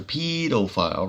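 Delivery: sarcastic stretch on the word. Real, not acted. Man mocking the very word they use, sarcastic. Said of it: "which I say that sarcastically".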